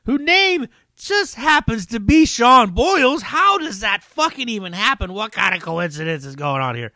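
loud, hammed-up show announcer; announcer intro. Podcast host introducing himself, mock-announcer hype.

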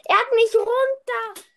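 loud, high cry of dismay; dismayed yell. Real, not acted. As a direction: shout it out in shock. Bed destroyed, killed in game.

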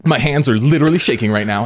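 high, loud mock panic; hammed-up, high-pitched distressed poster; mock frantic woman. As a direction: imitate someone dramatizing her shakes for a video. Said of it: "doing it like that".

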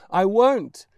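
put-on high, loud child's refusal; stubborn boy's shout. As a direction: plant your feet and shout it. Stubborn boy refuses mother.

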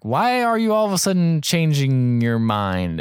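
drawn-out mock disbelief, sliding down from a high start; imitating an incredulous questioner; retold incredulous question. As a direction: stretch it out like a puzzled challenge. Retells judge questioning changed testimony.

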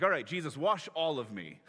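mock-eager, all in; a touch of Peter's overeager zeal; eager overdoing. Peter eagerly asks for full wash.

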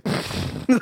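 voiceless mock devil's snicker; imitated mocking laugh. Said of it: "like, laughing at her".

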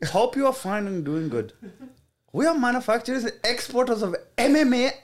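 put-on South Asian accent. Reading manufacturer message aloud.

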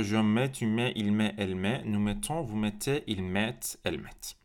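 fading recap; conjugation recap. Shown as a demonstration.

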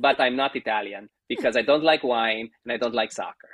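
imitated Italian accent at an even pitch; mock-declaring in an Italian accent. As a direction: retell it in a light Italian accent. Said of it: "I'm doing the accent".

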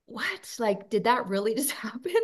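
high, amazed what?, then quick disbelief; stunned disbelief. Retold or imitated. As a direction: relive the moment you couldn't believe it. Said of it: "I was like".

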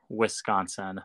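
"Wisconsin" with igloo's short i, lightly stressed; hard I. Shown as a demonstration. Guest repeating the local way, "Wisconsin" with a hard igloo i. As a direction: pronounce "Wisconsin" as "Wiss-consin", hard i. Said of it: "hard I, like igloo".

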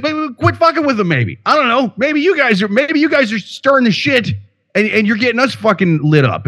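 high, whiny mocking voice; imitating a fed-up Tel Aviv local.

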